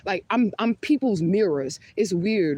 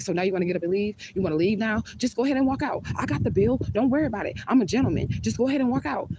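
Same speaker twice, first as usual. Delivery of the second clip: mocking the date; 5 semitones higher than usual. Date's passive-aggressive outburst retold.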